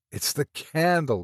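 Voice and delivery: a touch of relieved exclaiming; mild exclamation. Acted. Meagle relieved the light went out, mild exclamation. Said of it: "he exclaimed".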